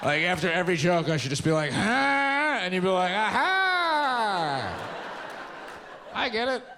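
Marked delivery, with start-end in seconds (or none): 1.7-2.6 high, teasing huh; prompting huh. Pretend. Prompting audience after a joke. 3.1-6.6 high, laughing aha; mock realization. Imagined audience getting it.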